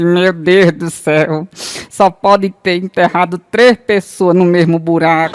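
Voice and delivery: put-on old widow voice. Old widow at her husband's cemetery, slow and pious.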